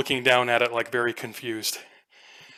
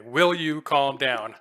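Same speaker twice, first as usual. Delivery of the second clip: a little louder, slow; repeating the yell; 4 dB louder, slower than usual. Retold or imitated. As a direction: echo the player's yell back, milder. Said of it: "Oh, okay".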